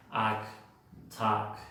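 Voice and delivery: "ac, tac" with an open A vowel; other accent's A. Shown as a demonstration. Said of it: "En el otro acento se pronuncia A".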